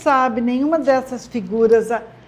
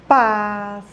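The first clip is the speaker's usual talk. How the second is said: syllable by syllable; 4 semitones lower than usual. Shown as a demonstration. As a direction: read "passarinho" like a learner decoding each syllable. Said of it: "Lendo sílaba por sílaba".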